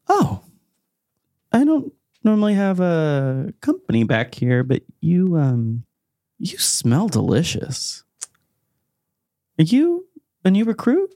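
high-pitched, halting questioner; Az character voice. Acted. Curious Az greets the unexpected visitor, high-pitched and halting.

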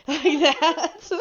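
sudden loud shriek at the mic; loud scream. Shown as a demonstration. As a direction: blast it into the microphone. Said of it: "that's what it sounds like".

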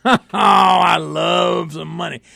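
money excitement. Real, not acted. Host greets money talk.

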